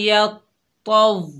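यतव slowly, ta flowing into waw; slow joined यतव; यतव recited slowly; merged recitation. Shown as a demonstration. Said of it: "तो को वाव से मिलाएंगे".

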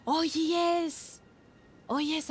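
high, thrilled realisation; gasp, then a high delighted cry. Real, not acted. Streamer loves a viewer's idea, high delighted gasp.

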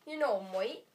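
put-on a light British accent. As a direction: say it like a Brit.

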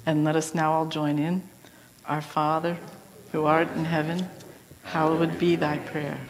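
low, softened congregational prayer; leading prayer. Real, not acted. Minister leading the congregation in the Lord's Prayer, low prayerful voice. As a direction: lead the room gently into the Lord's Prayer, low and measured.

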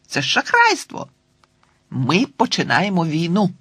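high, shocked protest; indignant girl's outcry. Acted. Girl protesting to her friend about the cheat, high and indignant. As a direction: cry foul in disbelief.

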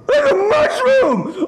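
high, drawn-out horrified cry; hammed-up horror, pitch way up; panicked shriek. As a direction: shriek it slowly in rising panic. Panics at mushroom in house.

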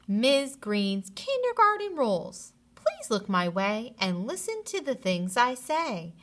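bouncy read-aloud of a rhyme; sing-song the rules for the class; cheerful story-time rhyme; reading to children. A narrator's reading.

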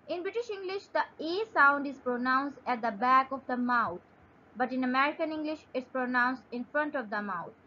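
slow, careful reading of a definition; slow dictation reading. Shown as a demonstration. Teacher reading a definition aloud to students, slow and careful. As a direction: read it out slowly for students to follow.

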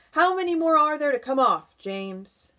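high, loud demanding question; centipede's cry. A narrator's reading. Centipede asking James about his boots, loud high cry. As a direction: call it out impatiently, dropping on the name. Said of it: "the centipede cried".

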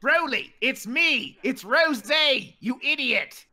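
a hint of a British lilt, exasperated; Rose accent. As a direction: scold him in a light British accent. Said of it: "That accent!".

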